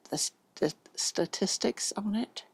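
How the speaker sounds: slurring the S sounds through braces; lisping a little on the S's. Real, not acted. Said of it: "my braces make me do that when I say S's".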